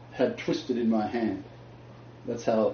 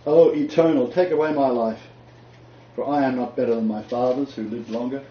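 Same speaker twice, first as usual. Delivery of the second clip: despairing prophet's plea; 2 semitones higher, 5 dB louder than usual. Retold or imitated. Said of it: "And he said".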